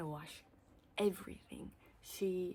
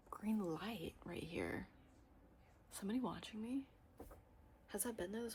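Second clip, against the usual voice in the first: hushed whisper; 3 semitones higher, 6 dB quieter than usual. Real, not acted. Spotting the green light, a wary whisper. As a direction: whisper it as if watched. Noticing camera light, unsettled.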